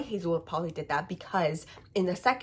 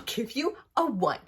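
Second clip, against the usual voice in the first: laughing whisper; 4 semitones higher, 3 dB louder than usual. Real, not acted. Grudging rating.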